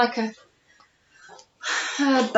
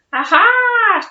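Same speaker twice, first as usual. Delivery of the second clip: chuckle; 9 semitones higher, 6 dB louder than usual. Acted. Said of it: "chuckles the captain".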